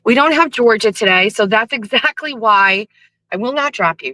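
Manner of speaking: ordinary talk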